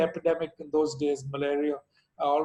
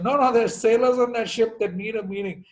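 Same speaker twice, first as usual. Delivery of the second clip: raised, higher, pressing the point; louder urgent insisting; insistent plea; 5 semitones higher, 6 dB louder than usual. Retold or imitated. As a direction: push back hard on the phone. Acted call with the embassy.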